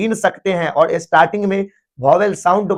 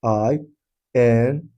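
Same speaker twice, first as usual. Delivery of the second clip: spelling aloud; 5 semitones lower, 4 dB quieter, much slower than usual. Shown as a demonstration. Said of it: "इंडियन".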